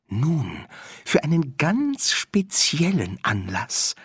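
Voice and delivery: sly honeyed whisper, slow; conspiratorial whisper. Acted. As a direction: lean in and whisper the secret. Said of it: "verschwörerischen Flüstern". (verschwörerisches Flüstern)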